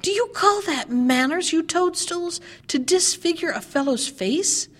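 put-on a mild yell at the girls; dwarf yelling. A narrator's reading. Dwarf yells at the girls for cutting his beard, mildly. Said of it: "he yelled to them".

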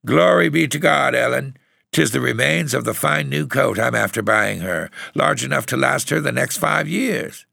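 high-pitched outraged lament; dawning dismay. A narrator's reading. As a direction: wail it as the truth sinks in. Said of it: "as comprehension grew".

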